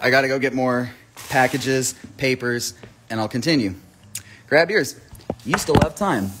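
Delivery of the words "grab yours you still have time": higher and louder, pushing the sale; rally the viewers to buy now; hyped call. Acted.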